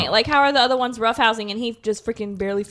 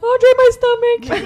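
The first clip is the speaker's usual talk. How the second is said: mock whiny complaint; 12 semitones higher, 5 dB louder, slower than usual. Pregnant friend complaining to baby.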